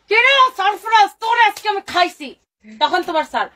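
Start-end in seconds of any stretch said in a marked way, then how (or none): 0.1-2.3 mock yell at son. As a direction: bark a playful threat. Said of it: "তারপরে".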